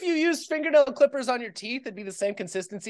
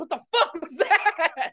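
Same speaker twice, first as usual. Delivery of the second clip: startled; 6 semitones higher, slower than usual. Pretend. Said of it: "and you're like".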